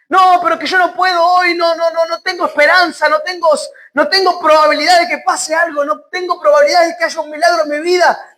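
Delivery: high, insistent pleading run; despairing protest. Acted. Preacher voicing someone with no hope today, protesting. Acting a hopeless person protesting.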